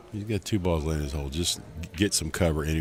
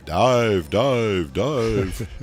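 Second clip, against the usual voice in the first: loud, high submarine captain calling dive; 5 semitones higher, 8 dB louder, much slower than usual. Pretend. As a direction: bark it like a sub captain ordering a dive. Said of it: "my submarine captain, uh, voice".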